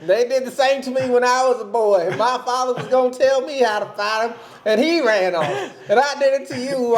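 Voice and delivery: mock fatherly rant; lightly acted father. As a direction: play a griping father, a little high. Acts out bitter father to son.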